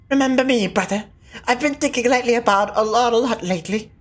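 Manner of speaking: put-on light British-accented brother voice. Dead brother greeting him, British accent. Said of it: "Why do I have a British accent".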